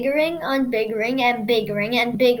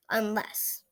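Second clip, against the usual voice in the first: whisper; 3 semitones lower, 9 dB quieter than usual. Acted. Word read off the rocks.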